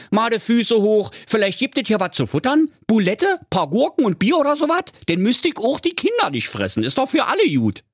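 very high, cartoonish bear with a Berlin twang; a lost, grumbling Berlin bear, voiced high and comic; squeaky bear talking Berlin slang. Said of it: "der Berliner Bär".

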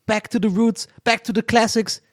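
high, pumped show announcement; hyped announcer. Acted. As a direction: build up like a hype man. (aufgedrehter Ansager)

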